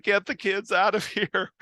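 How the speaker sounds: high-pitched, laughing through the line; mock-urgent shout, breaking into a laugh; laughing mock warning. The speaker warns the wedding guests, high and laughing. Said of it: "everybody's freaking out".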